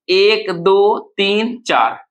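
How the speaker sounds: slow, spaced count. Shown as a demonstration. Teacher counting syllables for students, slow and spaced. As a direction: count deliberately, a gap after each number.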